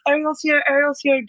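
high, eager announcing; lifted, cheery mock greeting; retold excited welcome. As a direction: imitate hosts heralding a guest. Retold hosts announcing her arrival.

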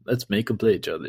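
a hint of a corporate voice; lightly voiced office presenter; corporate training video. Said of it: "this voice you're doing is hilarious".

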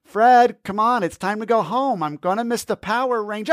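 whiny little brother pestering to leave; squeaky kid voice. Acted. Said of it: "says in a squeaky voice".

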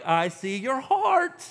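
pointed, deliberate calling-out; God confronting. Acted. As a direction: voice God seeing through the pretense. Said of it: "and God's like".

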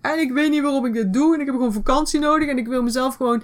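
fed-up whiny voice. Pretend. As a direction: whine like you need a holiday. Acting out a fed-up person.

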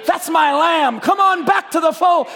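a loving shepherd calling his lamb home; voice of the Holy Spirit. Acted. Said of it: "the Holy Spirit said".

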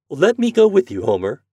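high, loud motherly plea; pleading mother. Acted. Mother asking to join her son, pleading. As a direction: plead to be taken along.

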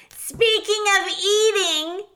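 high, slow, loud rat shout; hungry rat butting in. A narrator's reading. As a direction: call out shrilly over the crowd. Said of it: "shouted one of the rats".

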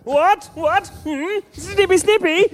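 high squeaky crab voice. Acted. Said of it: "So stupid, I hate it".

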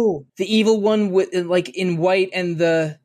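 it just clicked for you, let it burst out; excited realization. Real, not acted. Cohost catching the doves and bats symbolism, excited high voice.

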